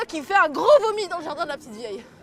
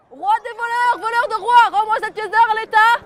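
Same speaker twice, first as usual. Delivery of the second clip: raised, insistent rooster voice; rooster's demand; 4 semitones higher, 5 dB louder than usual. Acted. The rooster calls up to the king, raised and insistent. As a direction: demand the coin back, chin up.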